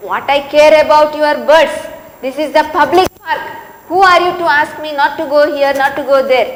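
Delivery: mildly heated acted quarrel; irritated retort. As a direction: argue back hotly, hurrying the words. Acted quarrel over park bench.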